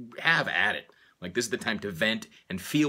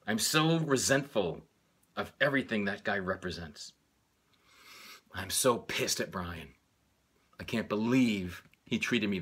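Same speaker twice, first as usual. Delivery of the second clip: acted anger. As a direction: work yourself up into resentment. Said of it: "try to feel into my anger".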